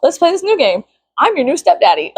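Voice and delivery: laughing taunt. Acted. Taunting the boys from school, laughing. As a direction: tease them, laughing.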